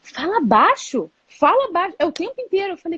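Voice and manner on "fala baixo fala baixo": slow, drawn-out repeated shushing; a tired mum hushing her son over and over; nagging hush. Retold or imitated. (mãe repetindo fala baixo, lenta e cansada)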